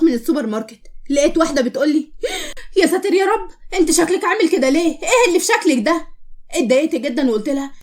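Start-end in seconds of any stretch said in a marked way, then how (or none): 2.8-6.1 higher-pitched appalled reaction. Acted. Stranger to a girl in the supermarket, appalled. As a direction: recoil in disgusted disbelief. Stranger recoils at her looks.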